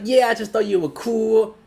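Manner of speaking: high put-on female voice; imitated friend-zoning woman. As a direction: mimic her airy excuse in a high pitch.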